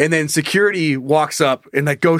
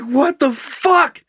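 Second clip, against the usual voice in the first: exasperated disbelief; 7 semitones higher than usual. Retold or imitated. Man retelling a bathroom shock, in high exasperated disbelief. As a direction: replay your baffled, put-upon reaction. His baffled reaction, retold.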